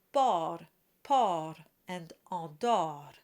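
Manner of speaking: bord and port with an open O and a single light flip on the R; lightly flipped R. Shown as a demonstration. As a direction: tap the R once in bord, port and andor. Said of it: "the R is just rolled lightly with just a flip".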